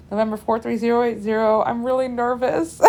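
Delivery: radio call dissolving into laughter; giggling admission to her instructor; laughing nervous confession. Retold or imitated. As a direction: confess the nerves as a giggle breaks through. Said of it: "That's all I said".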